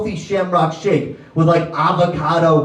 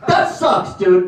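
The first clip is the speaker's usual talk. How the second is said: sarcastic shout; slower than usual. Acted. Mocking the rent complainers.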